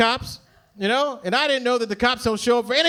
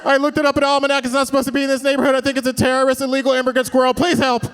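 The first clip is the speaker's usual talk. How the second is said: fussy suburban caller; 3 semitones higher than usual. Pretend. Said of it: "You can be like".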